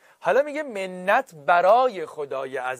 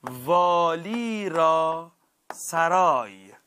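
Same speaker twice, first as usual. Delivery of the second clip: drawn-out slow reading; slow teaching example; much slower than usual. Shown as a demonstration. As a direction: spell the example out very slowly. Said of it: "درس دو دوازدهم میگه".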